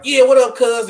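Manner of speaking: lightly voiced switch to a Compton drawl; mock American slang. Friend imitating the actor greeting on set, a light mock American accent. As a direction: toss it off like a London actor faking LA. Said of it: "They be like".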